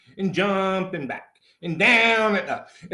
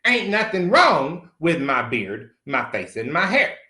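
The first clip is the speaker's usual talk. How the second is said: slow, dragged-out defiant denial. Retold or imitated. Defending his beard to the esthetician, slow and defiant. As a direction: lay each word down slowly, refusing. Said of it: "Fuck you".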